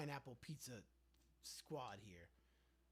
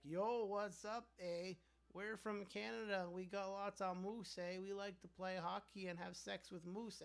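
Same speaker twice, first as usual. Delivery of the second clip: cartoon Canadian accent drawing out every eh; mock Canadian accent; 4 semitones higher than usual. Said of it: "That's my impression of a Canadian".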